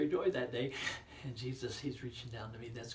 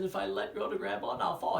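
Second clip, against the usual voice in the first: put-on high, loud frightened child; scared boy; 7 semitones higher, 10 dB louder than usual. Boy on the cliff afraid to let go, high and loud. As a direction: blurt the fear, higher and louder.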